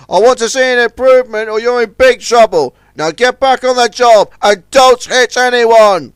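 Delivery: a captain scolding a careless tug. A narrator's reading. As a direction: lay down the law to a careless youngster. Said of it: "had been scolding Warrior".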